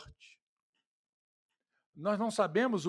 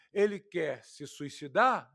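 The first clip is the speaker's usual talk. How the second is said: mocking; 4 semitones lower, slower than usual.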